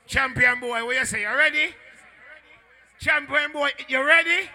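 loud, rising MC challenge; calling out. Real, not acted. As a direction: holler it up high on "ready". MC calls to champion.

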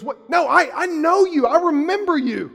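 high, loud insistent ex-con voice; ex-gang member insisting he knows a stranger, loud. Retold or imitated. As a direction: push it, he's sure he knows him. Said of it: "He goes".

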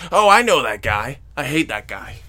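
mock griping, loud burst at the start; grumbling complaint. Husband griping at the previews, mock grumbling. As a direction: imitate a grouchy running commentary. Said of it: "he's just bitching".

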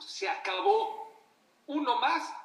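grito de ultimátum, agudo y fuerte; rey enojado. Retold or imitated. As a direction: imita a un rey que pierde la paciencia y alza la voz. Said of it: "Se enojó el rey". (rey enojado, tajante y a gritos)

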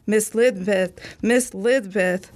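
desperate call at the door; crying out. Acted. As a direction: call her name, pleading.

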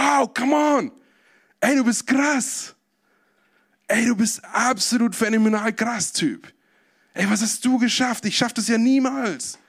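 cheering, voice jumping up high; enthusiastic crowd. Acted. Thrilled crowd cheering the tightrope walker, high and excited. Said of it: "die Menschenmenge ist begeistert und sagt".

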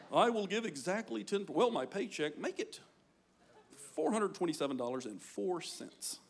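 lightly voiced penny-counter; mock careful tither. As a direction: count it out as if every cent matters.

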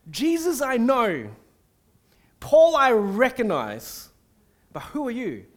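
lightly voiced demon mocking the sons of Sceva. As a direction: have the demon scoff at the exorcists. The demon answers the exorcists.

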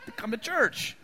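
loud, high outraged rant; hammed-up furious general; indignant Naaman. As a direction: play an offended, ranting Naaman. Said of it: "He's infuriated, it says".

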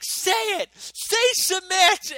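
dad demanding his son submit, shouting; shouted demand. Retold or imitated. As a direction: bellow the order down at him.

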